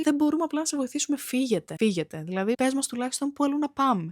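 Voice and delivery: mock furious protest, quick and high; angry boyfriend. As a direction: imitate an irritated boyfriend arguing with staff. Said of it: "το αγόρι μου ήταν λίγο έξαλλο".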